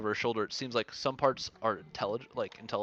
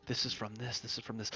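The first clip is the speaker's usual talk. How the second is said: whispering under his breath; 6 dB quieter than usual. Acted. Cole cataloguing trophies to himself, muttering under his breath. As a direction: mutter it as you take stock. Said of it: "whispering under his breath".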